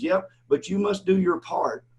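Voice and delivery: buddy's slow, stern put-down of the debtor; stern retort. Retold or imitated. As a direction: shut him down, every word deliberate. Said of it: "And he goes".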